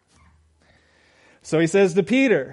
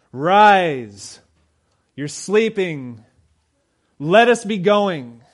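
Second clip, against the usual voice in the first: slow, firm rallying call, louder on Rise; bold command; 5 dB louder, much slower than usual. Shown as a demonstration. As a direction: call them up to stand and go. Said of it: "I take it as he said it boldly".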